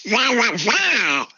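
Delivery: high squawking duck quacks; Kalle Anka. Shown as a demonstration. Guest jokes with radio host in Donald Duck voice. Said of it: "när du är Kalle Anka".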